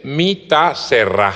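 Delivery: slow, measured "Mi ta cerrá", stress on the final á; "cerrá" with no d, last vowel stressed; Papiamento pronunciation. Shown as a demonstration. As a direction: spell it out by ear, "cerrá" ending on an accented a. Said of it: "con tilde en la A".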